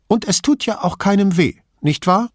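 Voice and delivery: put-on old lady, indignant and chatty; old signora. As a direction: play the suspicious old woman complaining about thieves. Old signora seeks agreement.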